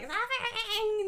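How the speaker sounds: slow, high drawn-out laughing cry; Riddler impression. Imitating the Riddler's line for friends, slow and high. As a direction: stretch the word like the Riddler. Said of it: "when the Riddler speaks".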